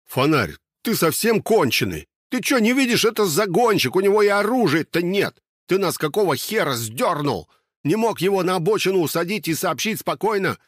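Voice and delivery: high, loud furious dressing-down; angry scolding. Acted. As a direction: chew out the idiot sentry. Yurasik scolds the guard.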